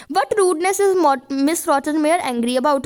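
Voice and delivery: slow, careful reading of the question; slow dictation read. Shown as a demonstration. Teacher to students, reading the question slowly. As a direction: read it out slowly for the class to copy.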